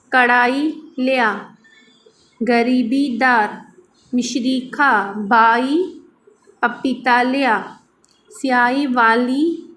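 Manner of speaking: reads each syllable slowly and deliberately for learners; slow word-list reading. Acted. Teacher reading primer words aloud for students, slow and deliberate.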